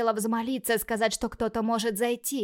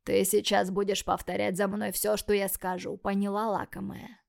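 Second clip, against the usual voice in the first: hoarse demon voice. Acted. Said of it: "хрипло проговорил".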